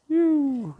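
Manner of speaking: high, falling "yoo"; a long high coo sliding down; playful "yoo". Real, not acted. Cook pouring water into the dough, high playful "yoo".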